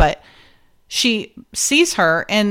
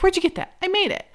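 quoting them; 10 semitones higher, 6 dB quieter, faster than usual. Retold or imitated. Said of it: "He's like".

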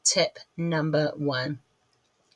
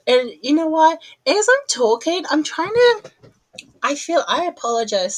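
higher and louder, excited; 9 semitones higher, 5 dB louder than usual. Real, not acted. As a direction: burst out with excitement. Excited burst.

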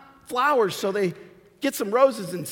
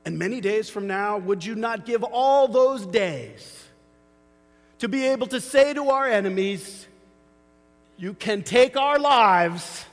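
slow Scottish rallying cry building to a shout; William Wallace; slower than usual. Retold or imitated. Preacher quoting William Wallace to the church, slow and building to a shout. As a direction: rouse the troops, slowing down and swelling to a shout. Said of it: "And William Wallace says".

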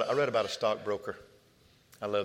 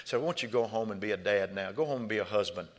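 gentle counsel; 4 dB quieter than usual. Retold or imitated. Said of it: "I said".

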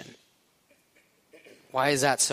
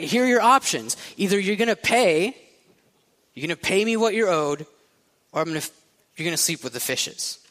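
put-on Italian mobster accent; 4 semitones higher, faster than usual. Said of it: "an Italian accent".

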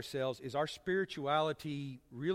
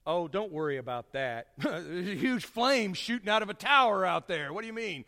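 dismissive company voice; 3 dB louder than usual. Retold or imitated. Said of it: "the company would say".

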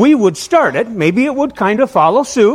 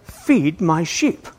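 1 Jesus to Peter; 2 semitones lower, 5 dB quieter, much slower than usual. Retold or imitated. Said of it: "he tells Peter".

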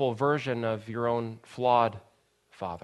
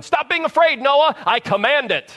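loud, much higher barked command; a father pretending to yell at his crying son; mock shouting; 11 semitones higher, 8 dB louder than usual. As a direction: storm in and bellow the order. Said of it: "storm into Noah's room and start shouting".

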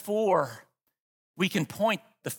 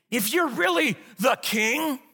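defiant challenge; 4 semitones higher than usual. Acted. Believer voiced defying God, slow defiant taunt. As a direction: fling it up as a fist-shake. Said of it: "defiantly shake our fists".

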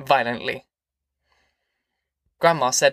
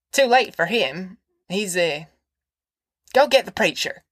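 put-on higher insistent old woman; high granny voice; 5 semitones higher than usual. A narrator's reading. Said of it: "raised a shrill voice".

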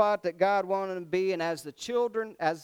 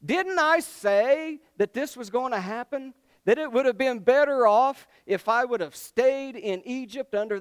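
high, loud I-told-you-so whine; hammed-up complaining, loud and high; told-you-so rant; 4 semitones higher, 6 dB louder than usual. Grumbler reproaching Moses in the desert, loud mock whine. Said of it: "have you ever done this".

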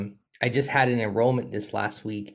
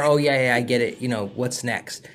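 impatient client; 3 dB louder than usual. Retold or imitated.

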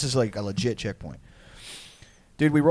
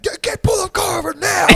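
high mock yell, louder; 6 dB louder than usual. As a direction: yell at him to pull over. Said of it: "we're all, like, yelling at him".

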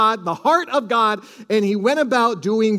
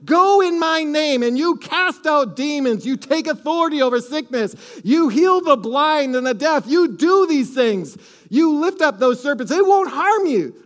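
preaching with rising force; 5 semitones higher than usual. Acted. Preaching commission of Jesus.

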